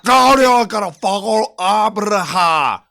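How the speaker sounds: loud, high mock drill instructor with a Hispanic accent; heavy Hispanic accent. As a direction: bellow it in an exaggerated Hispanic accent with rolled R. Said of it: "the accent and you have no idea".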